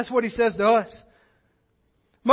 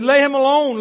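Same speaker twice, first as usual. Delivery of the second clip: mocking; 4 semitones higher, 6 dB louder than usual. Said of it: "The rest said, still mocking him".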